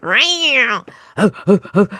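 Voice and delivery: high falling meow then bouncy oh oh oh; playful cat noises. Shown as a demonstration. Host clowning animal noises for listeners, high meow. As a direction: toss off a quick cat meow.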